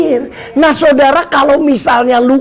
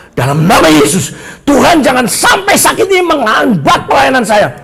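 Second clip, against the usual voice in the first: tag. Retold or imitated. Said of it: "saya berkata".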